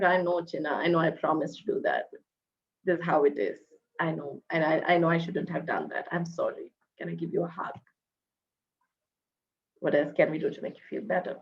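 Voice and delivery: soft, low soothing mother; reassuring. Retold or imitated. A mother consoling her upset child Chinna, softly reassuring. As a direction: gently comfort a disappointed child.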